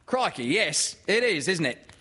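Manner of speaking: high, loud mother character; Kanga. Acted. Mother interrupting the poem, high and loud. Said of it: "said Kanga".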